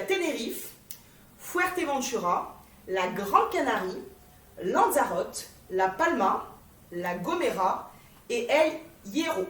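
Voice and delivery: French speaker attempting Spanish place names; amateur Spanish accent. Shown as a demonstration. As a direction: list the islands in a rough, unconvincing Spanish accent. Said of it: "mon accent espagnol qui n'est pas du tout espagnol".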